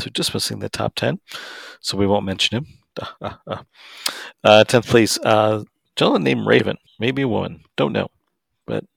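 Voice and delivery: punchy announcer reading the rankings; sportscaster voice. Acted. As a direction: call out each place like a sportscaster. Reads out the rankings.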